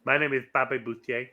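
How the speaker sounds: lightly voiced Waterboy impression; Bobby Boucher. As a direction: do a mild take on the Waterboy character. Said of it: "you sounded like Bobby Boucher in".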